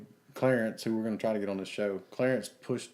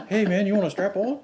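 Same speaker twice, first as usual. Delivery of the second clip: imitating the stranger; 11 semitones higher, 8 dB louder than usual. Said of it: "That's what he said".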